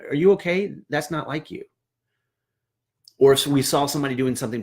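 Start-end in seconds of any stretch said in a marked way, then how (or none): 0.1-1.6 gentle, concerned, softly asked; caring check-in. Shown as a demonstration. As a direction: coworkers checking on a struggling peer, gently concerned. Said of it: "We'd say".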